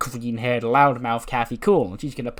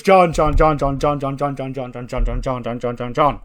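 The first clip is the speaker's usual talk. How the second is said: name fired off over and over, loud at first; pestering name-calling; 6 dB louder than usual. Retold or imitated. Bobby walks up to Cena in the hallway, pestering. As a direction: badger someone for attention, settling into a steady chant.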